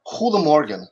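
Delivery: "goedemorgen" said in Dutch, throaty g; Dutch word. Shown as a demonstration. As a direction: pronounce "goedemorgen" like a Dutch speaker. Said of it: "is good morning in Dutch".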